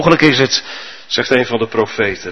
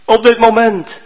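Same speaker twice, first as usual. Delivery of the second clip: higher, raised plea from below; trapped man begging for help; calling out; 8 semitones higher than usual. Acted. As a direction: cry up in despair. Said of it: "Maar de Chinees riep".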